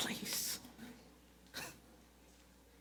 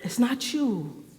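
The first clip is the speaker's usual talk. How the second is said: mock breakup line; 6 semitones higher, 7 dB quieter than usual. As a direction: imitate someone gently dumping a partner.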